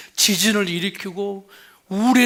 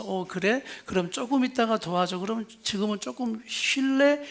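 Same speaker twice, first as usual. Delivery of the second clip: softer, gentle understanding tone; wife answering her tired husband with soft respect; respectful reply; 5 dB quieter than usual. Shown as a demonstration. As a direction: offer him rest kindly. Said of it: "이렇게 존중하고 비난 없는".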